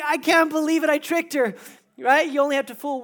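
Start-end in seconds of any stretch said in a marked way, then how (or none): 0.0-1.5 high, loud burst of triumph; mock elated disbelief. Groom-to-be telling the crowd she said yes, gleeful triumph. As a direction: crow it like you got away with it. Retelling his joy at her yes.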